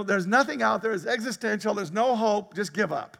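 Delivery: despairing worldling. Retold or imitated. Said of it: "a person in the world going".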